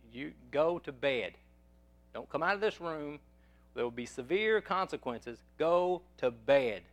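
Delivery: firm parental order with weighted, drawn-out words; tough, strong father. Retold or imitated. Father ordering his son to bed, firm and tough. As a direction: lay down the law to a child, deliberately. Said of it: "I had to be the strong one".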